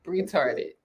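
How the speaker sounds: "retarded" said with a B in front, as "bretarded"; drawn-out "retarded" starting with a B sound; B put in front. Shown as a demonstration. Host dodging the banned word, "retarded" begun with a B. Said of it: "you put a B in front of it".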